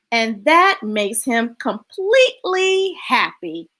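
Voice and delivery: deliberate storybook ending; story narration. A narrator's reading. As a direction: wrap up the tale for children, savoring each phrase.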